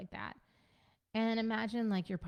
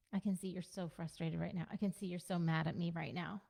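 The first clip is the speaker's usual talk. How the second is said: gentle acknowledgment. Shown as a demonstration. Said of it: "That's how it can sound".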